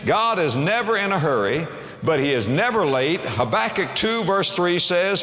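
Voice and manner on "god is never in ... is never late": ordinary delivery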